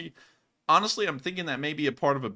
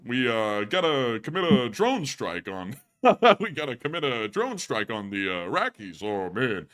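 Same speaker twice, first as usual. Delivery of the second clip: lightly voiced put-upon comic, breaking into a laugh; a touch of the stand-up voice with laughter; Rodney voice. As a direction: do the comedian's bit and crack up midway. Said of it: "I turned in Rodney at the end there".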